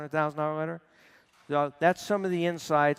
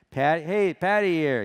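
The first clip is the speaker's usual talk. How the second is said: lightly imitated Irish accent, a bit higher; 3 semitones higher, 4 dB louder, slower than usual. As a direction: put on a hint of an Irish phone greeting. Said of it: "with the Irish accent".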